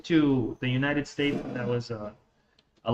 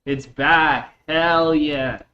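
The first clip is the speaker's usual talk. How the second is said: louder, relieved cheer; excited cheer; 7 dB louder, much slower than usual. Real, not acted. Streamer cheering that the stream is back, loud and relieved. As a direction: celebrate the stream coming back. Stream returns after crash.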